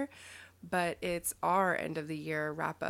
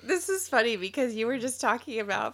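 laughing; 3 semitones higher, 5 dB louder than usual. Real, not acted. Still giggling.

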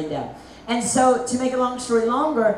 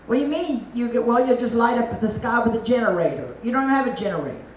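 mock scoffing; faster than usual. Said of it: "And people say".

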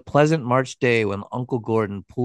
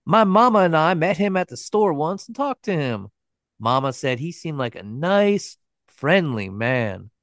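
put-on little boy; 5 semitones higher than usual.

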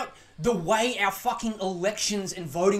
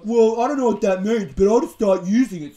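mock clueless voice; 9 dB louder than usual.

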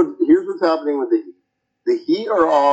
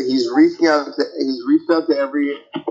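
underwater; 3 semitones higher, faster than usual. Real, not acted. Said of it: "It sounds like you're underwater".

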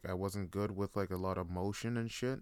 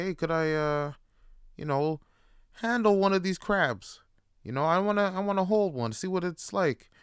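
put-on higher, louder little-kid plea; eager kid asking; 9 semitones higher, 7 dB louder than usual. Kid begging his dad to let him hold a crab, eager and high. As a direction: ask like an excited small boy.

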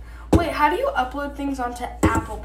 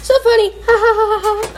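higher, louder fake ha ha ha; sarcastic laugh; 9 semitones higher, 5 dB louder, much faster than usual. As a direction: laugh on purpose, not meaning it.

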